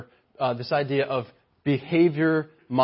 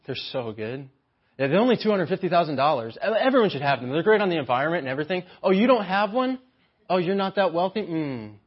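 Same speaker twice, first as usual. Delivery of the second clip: lightly voiced snooty mom, condescending; a hint of a boat-club mom showing off; bragging rich mom; 3 semitones higher, faster than usual. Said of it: "wealthy mom ... bragging to other moms".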